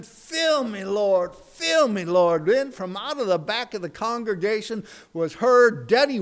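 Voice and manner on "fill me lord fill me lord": crying plea. Acted. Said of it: "he's crying".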